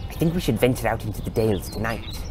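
declaring. Acted. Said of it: "he declared".

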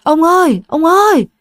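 mother stammering to her husband, high panic; stammering cry. Acted. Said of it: "lắp bắp nói".

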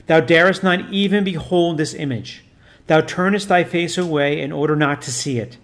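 a lightly voiced priest commanding solemnly; stern priest. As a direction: intone it like an exorcist giving orders.

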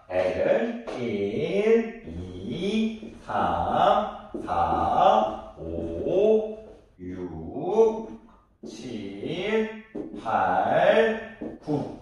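한 글자씩 길게 늘여 읽기; very slow teaching read, each number stretched out. Shown as a demonstration. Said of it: "한 글자로도 읽을 수 있어야". (숫자를 하나하나 아주 길게 끌며 읽기)

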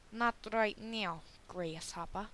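slow, mock Mexican accent; put-on Mexican accent. Player teaching "grasshopper", slow put-on Mexican accent. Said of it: "Why do you have a Mexicano accent?".

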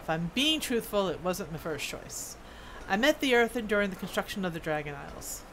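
lightly voiced dwarf smith, storytelling; dwarf smith character. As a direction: read it as an earnest old-world craftsman.

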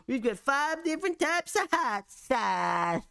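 high-pitched mocking imitation; put-on high voice, mocking the menu; mock sales pitch. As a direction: parody a restaurant boasting, pitched well up. Mimics Nando's boasting of sauces.

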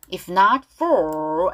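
slow "If not for", both Fs clear; F sound. Shown as a demonstration. Teacher models the lyric for learners, clear F sounds. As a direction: draw out "for" from a distinct F. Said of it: "F 발음".

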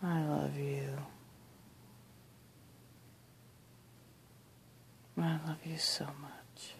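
very soft loving whisper. Real, not acted. Whispering goodnight love to the bugs. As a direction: barely breathe it, tenderly.

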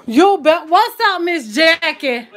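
high, loud hail; calling out greeting. Real, not acted. Cook hailing Miss Jackie mid-video, loud high greeting. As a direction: call out brightly with the name stretched. Calls greeting to an arriving viewer.

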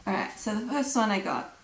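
slightly hoarse, losing her voice. Real, not acted. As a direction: speak through a worn-out throat. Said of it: "I'm losing my voice".

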